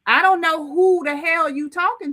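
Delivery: loud, indignant snap back; angry retort. Real, not acted. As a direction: push back hard, offended. Heated argument, defending herself.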